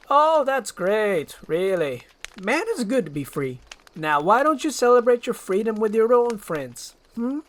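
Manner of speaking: sarcastic grumpy ogre; dry ogre trying to shake off a pest; a grouchy ogre, lightly voiced; Shrek voice. Shrek brushes Donkey off.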